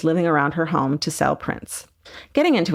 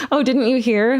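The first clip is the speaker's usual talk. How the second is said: put-on rough Australian accent, rising; 6 semitones higher than usual. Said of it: "I can't do an Australian accent".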